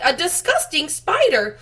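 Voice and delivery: high, loud, slow shriek of disgust; disgusted cry. Acted. Aunt Sponge recoiling from the spider, high slow shriek. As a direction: shriek each word out slowly in revulsion. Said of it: "she cried".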